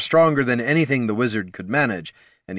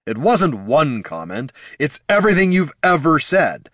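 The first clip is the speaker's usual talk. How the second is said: screaming; 5 semitones higher, 4 dB louder than usual. A narrator's reading. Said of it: "Jin's screams".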